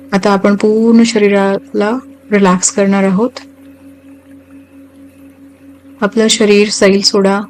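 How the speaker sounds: unhurried meditation guide, long pauses between phrases; guided meditation. Acted. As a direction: guide listeners gently into relaxation, phrase by phrase.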